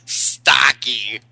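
drawn-out, provoking jeer; unhurried mocking repetition; slow taunt. Real, not acted. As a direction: needle them slowly with STOCKY. Prankster taunts the angry caller.

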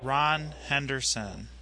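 slow and deliberate; dictating. Shown as a demonstration. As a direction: read it out for him to write. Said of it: "Did you write it down?".

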